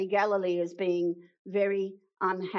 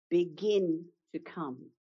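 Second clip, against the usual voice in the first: gentle invitation; slower than usual. Shown as a demonstration. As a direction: coax him forward kindly. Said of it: "It's actually".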